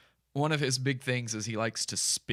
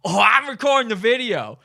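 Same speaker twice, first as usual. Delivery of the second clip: higher, louder cheerful Chris voice; chirpy Chris; 6 semitones higher, 7 dB louder than usual. Retold or imitated. Chris cheerfully answering the passerby, higher and louder. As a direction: answer brightly, oblivious. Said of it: "Chris is like".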